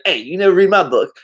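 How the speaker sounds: playful imitation of an angry friend; mock annoyed. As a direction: imitate a buddy's mild complaint. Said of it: "he'll get all angry at me".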